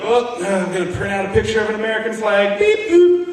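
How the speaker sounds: dopey voice with a high beep-boop; mock dopey voice. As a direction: play a clueless guy printing a flag. Mocking the guy printing.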